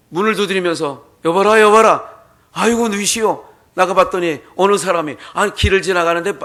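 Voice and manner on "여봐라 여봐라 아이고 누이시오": loud call of a traveller knocking at night; hammed-up traveller hollering at a gate; calling out at the door. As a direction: shout for the master of the house.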